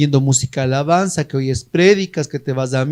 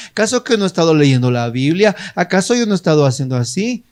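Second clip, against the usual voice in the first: fast indignant rant; 3 semitones lower, faster than usual. Retold or imitated. Retold angry brother's rant.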